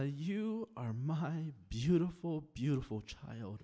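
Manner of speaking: slow, softening words of affection; tender. Acted. God speaking to a beloved child, tenderly.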